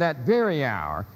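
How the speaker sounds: "very" stressed in "that very hour"; stress on the supplied word. Shown as a demonstration. Lecturer reading out an italicized word, "very" stressed. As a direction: lean on the word "very". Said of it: "just to emphasize the word".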